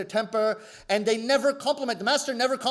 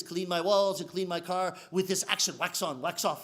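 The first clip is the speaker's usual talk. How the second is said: low, soft sensei giving orders; lightly voiced calm old master, low and quiet; 4 semitones lower, 3 dB quieter than usual. Sensei setting the student chores, low and soft.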